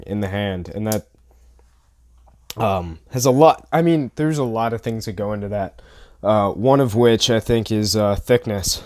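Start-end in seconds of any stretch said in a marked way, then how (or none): 2.6-8.8 stuffy, blocked nose, short of breath; talking through a blocked nose. Real, not acted. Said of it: "I can't breathe through my nose".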